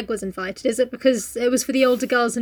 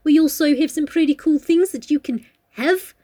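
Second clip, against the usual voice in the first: a wobbly put-on New Zealand accent; attempted New Zealand accent. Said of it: "I was kinda going for New Zealand".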